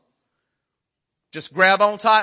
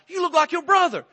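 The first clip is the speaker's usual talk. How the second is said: sulky wife; 11 semitones higher than usual. Retold or imitated. Wife's retort.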